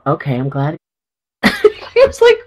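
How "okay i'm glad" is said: lower, softer, unconvincing admission; half-hearted gladness. Retold or imitated. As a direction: say it without really meaning it. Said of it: "Say it like you mean it".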